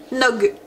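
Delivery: "Eggnog" said carefully in French-accented English; careful English pronunciation. Shown as a demonstration. Vlogger trying the English name without stammering, careful "Eggnog". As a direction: say "Eggnog" deliberately, as two separate English syllables. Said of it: "je vais essayer de le dire sans bégayer, le nom anglais".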